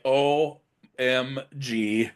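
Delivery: drawn-out, slow "O M G, what the hell"; slow mock disbelief. Townsfolk gawking at the shark tower, slow mock disbelief. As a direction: stretch it out in exaggerated disbelief. People voiced reacting to tower.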